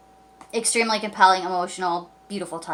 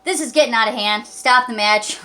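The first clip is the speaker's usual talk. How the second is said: faster, slightly pushier ref imitation; a mild mock tough referee; rough-talking ref; 2 semitones higher than usual. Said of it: "He, he didn't rough talk, but I'm gonna do it like that".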